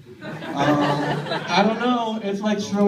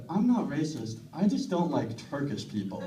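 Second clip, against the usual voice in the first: quoting date; 3 semitones lower, 7 dB quieter than usual. Retold or imitated. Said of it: "she said".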